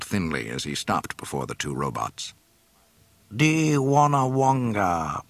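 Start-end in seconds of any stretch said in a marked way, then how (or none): 3.3-5.2 loud, slow alien greeting; sly creature greeting; alien majordomo. A narrator's reading. Bib Fortuna greets.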